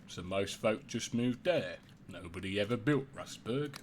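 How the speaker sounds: lightly voiced old-timer telling town history; a hint of a village old-timer; old townsperson. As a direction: recount local lore as a long-time resident.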